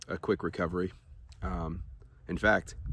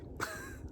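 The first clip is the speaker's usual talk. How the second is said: short, very quiet breathy laugh; brief soft chuckle to oneself; 14 dB quieter than usual. Real, not acted. Vlogger shrugging off a stock loss, laughing quietly. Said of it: "I'm gonna laugh about it".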